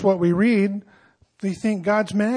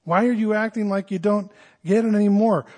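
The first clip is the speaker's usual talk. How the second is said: puzzled Paul; 3 semitones higher than usual. Shown as a demonstration. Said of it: "But he says".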